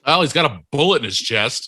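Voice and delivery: imitating a sarcastic line reading, bullet drawn up; mock-sarcastic audition delivery. Co-host imitating his friend's paramedic audition, sarcastic. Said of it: "so sarcastic".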